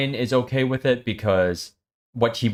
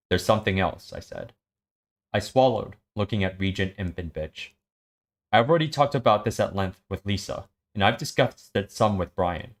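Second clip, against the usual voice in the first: measured read-aloud with lightly acted dialogue; understated audiobook-style reading; story narration. A narrator's reading. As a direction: read the scene aloud, lightly marking each character.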